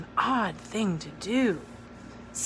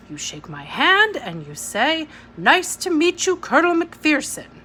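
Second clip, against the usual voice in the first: stern colonel; 4 semitones higher, 5 dB louder than usual. Acted. Colonel lecturing on manners.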